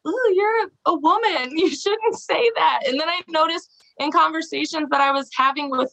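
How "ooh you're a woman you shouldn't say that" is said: high, prissy mock disapproval with a laugh; mock prim scolder. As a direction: imitate a prudish tut-tutting voice. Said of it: "'cause I'm like".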